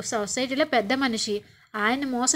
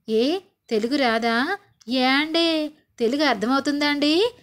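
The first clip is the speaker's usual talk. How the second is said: sarcastic mocking; 4 dB louder than usual. Narmada mocks Bhagyam's slang, loud and sarcastic. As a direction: drag it out like a mocking jab. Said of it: "ఏంటి, ఎటకారమా?".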